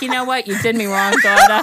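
comic impression of a disappointed mom; ashamed mother. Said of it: "she was ashamed of me".

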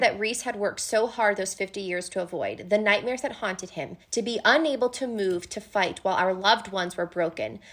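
reading the quote. Acted. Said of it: "as Feyre has this line".

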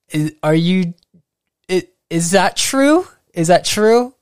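half laughing, unsure if it's true; amused disbelief. Real, not acted.

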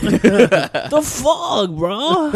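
high, indignant dad impression; mock mad dad. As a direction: imitate an annoyed dad, laughter creeping in. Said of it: "funny when he gets mad".

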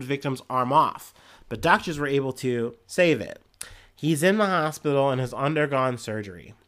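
measured headline-and-story reading voice; news read. Real, not acted. Podcaster reading an Ohio zebra attack story, news read. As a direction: read it out like a local news item.

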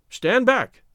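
loud, high eager call; eager exclaim. Acted. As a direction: call out eagerly, warning them off. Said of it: "exclaimed Larry eagerly".

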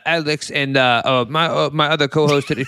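mock New Yorker, high then stumbling; hammed-up New York accent. Host faking a New York show intro and losing his way, hammed-up accent. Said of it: "Why is the New York accent".

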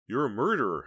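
high, loud, outraged; furious accusation. A narrator's reading. Heather silently accuses Snowman, furious.

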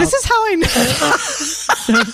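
very slow, drawn out, mock solemn; slow dramatic line. Gushing fan to her cohost, slow mock solemn. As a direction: let each word hang like a grand confession. Dramatic confession about seeing actors.

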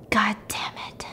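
hushed, breathy curse; whispered mock fury; seething whisper. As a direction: curse under your breath, acting barely contained rage. Acted seething villain over phone.

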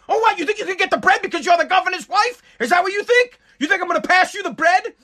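high, sneering mock of a wife. Wife mocking husband at dinner.

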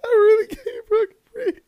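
can barely get it out for laughing; laughing too hard to breathe; breathless with laughter. Real, not acted. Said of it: "I can't breathe".

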